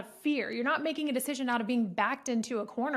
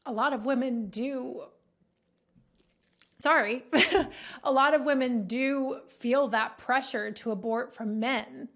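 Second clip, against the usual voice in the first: holding back tears. Real, not acted. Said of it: "I'm getting emotional".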